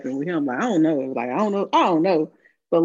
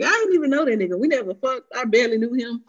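mildly hammed-up protest, pitched higher; acted denial; 5 semitones higher than usual. Retelling a denial about that man, mock protest. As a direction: imitate a protesting denial, high at the start.

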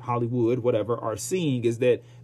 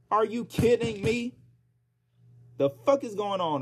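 disbelief; 9 semitones higher than usual. Real, not acted. Outraged at layoffs.

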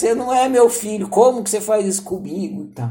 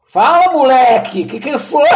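louder, slow, impatient mother; a mother barking at her kid; gruff mother; 5 semitones higher, 7 dB louder than usual. Retold or imitated. The mother, impatient with her hesitant son: louder gruff demand.

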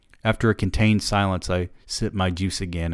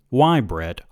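slow, tight, a touch louder; mildly clenched, holding back anger; wife pressing her husband, understated tension; 5 semitones higher, 4 dB louder, slower than usual. A narrator's reading. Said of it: "her voice now clenched".

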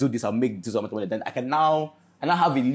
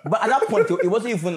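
laughing; 10 semitones higher, 8 dB louder than usual. Real, not acted. Laughing while resuming.

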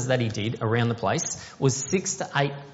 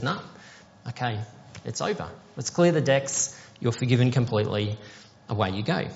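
gentle forgiveness; 2 semitones lower than usual. Pretend. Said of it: "He just says".

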